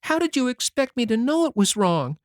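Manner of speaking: put-on high boyish voice, crying as he pleads; a sorry child weeping out his excuses; tearful. A narrator's reading. Davy crying on Anne's shoulder, begging forgiveness tearfully. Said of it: "cried stormily".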